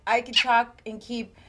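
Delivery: talking with cheeks full of air; puffed cheeks. Shown as a demonstration. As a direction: speak through puffed-out cheeks. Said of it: "keep a conversation with my cheeks full of air".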